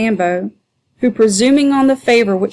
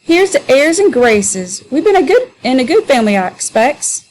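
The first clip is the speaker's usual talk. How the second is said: mock airs and graces; 4 semitones higher than usual. Sambo aping Adolph's grand airs, high and hammed-up. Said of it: "ludicrous imitation of Adolph's manner".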